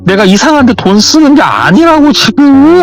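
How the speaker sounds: high-pitched mock-tearful pleading; imitated crying. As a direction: wail excuses like a crying younger sister. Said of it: "하면서 막 울더래요".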